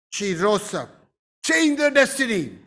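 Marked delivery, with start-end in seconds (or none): 0.1-0.9 hushed echo. Shown as a demonstration. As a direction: drop low and soft.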